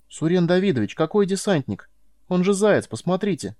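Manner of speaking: high, pleading disbelief; boy protesting to Suren Davidovich in disbelief; disbelieving. A narrator's reading. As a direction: urge him to see it's just a hare.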